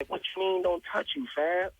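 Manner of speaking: imitated incredulous retort; retold indignant comeback.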